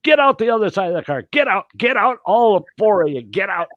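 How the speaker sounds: high, fast mother's order; ex-wife ordering four kids out of the car; mock yell. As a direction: bark it like a panicked mom. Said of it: "she yells at the kids".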